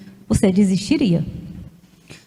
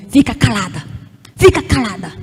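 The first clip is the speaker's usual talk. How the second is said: stern voice; 2 semitones lower than usual. Retold or imitated. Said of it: "uma voz dura".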